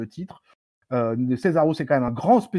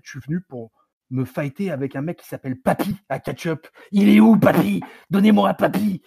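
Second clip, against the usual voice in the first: imitated wrestler calling someone out, louder and higher; mock Nakamura rant; 4 semitones higher, 6 dB louder than usual. Retelling Nakamura hunting for Papy, mock shouted challenge. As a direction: build into a loud, higher mock demand. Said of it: "il est en train de dire".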